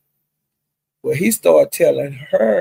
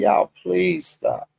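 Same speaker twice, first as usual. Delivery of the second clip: slow, higher, softer mild plea; begging; 4 semitones higher, 5 dB quieter, slower than usual. Retold or imitated. Friend begging two people to stop fighting, soft mock plea. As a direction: plead lightly, drawing it out. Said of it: "she was begging and pleading".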